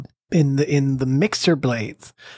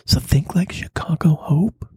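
whispering. Acted. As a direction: whisper it like a secret. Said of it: "Why are you whispering?".

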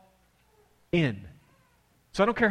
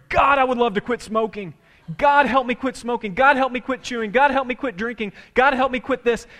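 loud, raised-pitch mock plea to God; pleading prayer; 7 semitones higher, 5 dB louder than usual. Preacher acting out congregation's New Year prayers, urgent pleading. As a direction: plead urgently, item after item. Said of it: "We pray".

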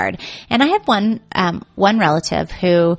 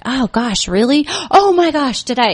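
fake and pivot; 6 semitones higher than usual. Shown as a demonstration. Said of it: "you just do a fake and pivot".

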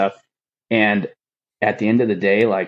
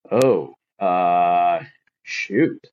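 a mild catch in the voice, let down; retelling the letdown, voice catching slightly; disappointed catch in voice; much slower than usual. Retold or imitated. To the chief offering a job, a mildly let-down, catching voice. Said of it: "he actually caught in my voice".

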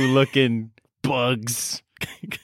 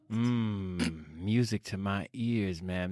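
low seductive murmur; 6 semitones lower, 12 dB quieter, slower than usual. Acted.

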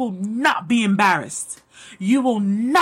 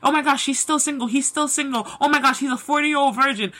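quick, snide mimicry of a gossiping neighbour; lightly mocked gossip voice; mocking gossip; 4 semitones higher, faster than usual. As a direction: rattle it off like a nosy busybody. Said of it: "people who may be mocking you".

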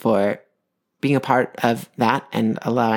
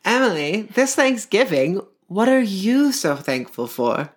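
slow, high mock interviewer; 6 semitones higher than usual. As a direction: ask it like a TV host. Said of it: "I will ask you this question".

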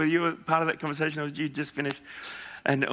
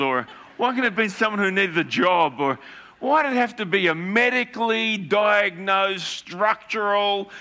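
inner panicking voice; 4 semitones higher than usual. Retold or imitated. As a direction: let the inner voice whine in dismay. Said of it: "my voice says".

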